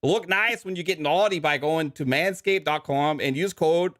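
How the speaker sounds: lightly held mock Canadian ad voice; mock Canadian ad read; Canadian accent. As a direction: keep the joking Canadian read going, eh. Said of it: "Canadian leprechaun".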